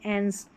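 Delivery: एंस soft, short e before ns, like -ence; modelled pronunciation. Shown as a demonstration. Teacher models the ending for students, softly. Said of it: "इसको अंस या एंस करके इसका उच्चारण होगा".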